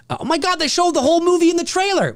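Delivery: high, fast whiny fan complaint; mock fan whine. Streamer mocking a fan's complaint, high whiny. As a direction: sneer it like a spoiled fan.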